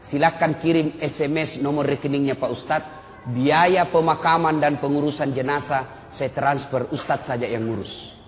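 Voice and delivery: low, soft, matter-of-fact reply; subdued, low delivery, trailing down; imitated businesslike son. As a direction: act out a detached son handing off arrangements. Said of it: "Jadi bagaimana?".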